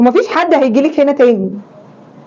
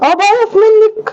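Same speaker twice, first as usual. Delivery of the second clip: slow, higher, contemptuous drawl; cold contempt; 8 semitones higher, slower than usual. Acted. Daughter-in-law tells mother-in-law she disgusts her, slow contempt. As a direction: spell out the insult slowly.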